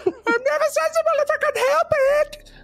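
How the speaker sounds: very high squeaky Elmo voice, laughing; Elmo impression. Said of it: "At her best Elmo impression".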